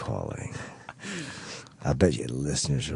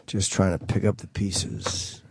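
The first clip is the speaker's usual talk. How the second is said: radio voice; 4 semitones higher than usual. Shown as a demonstration. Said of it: "It's my radio voice".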